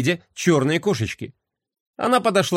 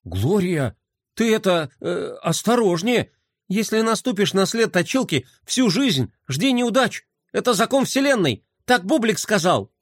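встревоженно; 5 semitones higher than usual. Acted. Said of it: "не на шутку встревожился".

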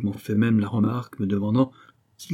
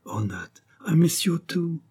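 whispered lovingly, voice unvoiced; 7 semitones higher, slower than usual. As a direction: breathe it close to her ear. Lovers reunite in the car.

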